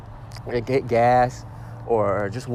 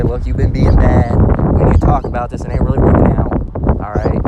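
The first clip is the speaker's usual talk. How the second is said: gentle talk, mocked; 10 dB louder than usual. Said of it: "he's gonna say".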